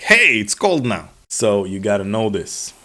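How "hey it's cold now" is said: a slow, louder mock call; winter calling out. Winter personified smacking the speaker, slow loud mock announcement. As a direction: playfully shout the news that winter is back. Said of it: "smacks me on the forehead and goes like".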